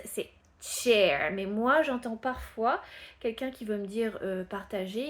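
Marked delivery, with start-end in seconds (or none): 0.6-1.3 "chair" starting hard TCH, loud. Shown as a demonstration. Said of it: "Et une chaise".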